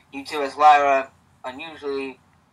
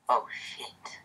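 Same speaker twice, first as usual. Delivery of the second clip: low-volume, voiceless whisper; 3 semitones lower, 11 dB quieter than usual. Acted. Reader whispering back at Lyra's confession, hushed whisper. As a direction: whisper the curse under your breath. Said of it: "you whisper".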